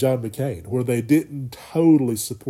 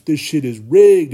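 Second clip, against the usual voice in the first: mock rant; 3 semitones higher, 8 dB louder, slower than usual. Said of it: "he would have been screaming from the rafters".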